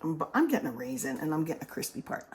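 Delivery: crunching while talking; mouth full. Real, not acted. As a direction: talk through crunchy bites. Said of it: "Can you hear me crunching?".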